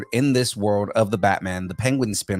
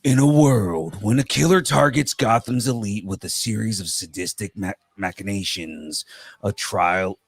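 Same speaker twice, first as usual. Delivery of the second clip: slow, dramatic trailer narration; movie trailer voice. Shown as a demonstration. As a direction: read it like a blockbuster trailer. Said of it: "in my movie guy voice".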